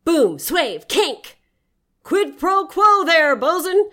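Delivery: loud, high, slow sea captain yell. Acted. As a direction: yell it over the crashing sea. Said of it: "yelled Dagnab".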